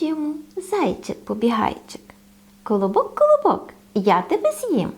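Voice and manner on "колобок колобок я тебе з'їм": lightly voiced hungry hare; eager bunny. Hare threatens the bun. (зайчик, що хоче з'їсти колобка)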